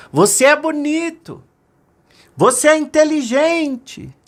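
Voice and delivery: high, loud echoing calls; bright echo from the mountain. Acted. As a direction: send it back like an echo. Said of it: "a montanha devolveu".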